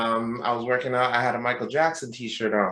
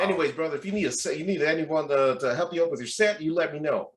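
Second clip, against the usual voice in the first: imitated friendly Southern offer; Southern accent; 3 semitones higher than usual. Gym stranger offers to help lift, Southern accent. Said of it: "with Southern accent".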